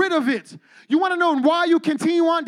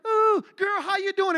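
put-on higher, sing-song "Ooh, girl"; gushing girly greeting; 5 semitones higher than usual. Pastor imitating churchgoers fussing over a friend, high and gushing. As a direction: coo over her like a bestie. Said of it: "We love her".

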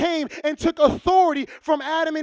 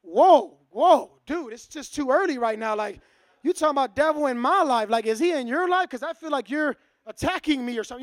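startled defensiveness; 2 semitones lower than usual. Retold or imitated. Friend reacts defensively to question.

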